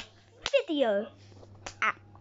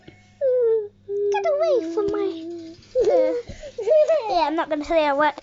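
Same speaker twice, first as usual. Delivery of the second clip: being tickled; 2 semitones higher, 4 dB louder than usual. Real, not acted. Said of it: "you're tickling me".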